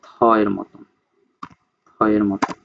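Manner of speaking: "থ" set apart as the theta sound; demonstrated TH sound. Shown as a demonstration. Teacher explaining how theta is pronounced, careful "থ". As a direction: sound out "থ" carefully, repeated after a pause. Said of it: "এটা অনেকটা উচ্চারণ করে হচ্ছে".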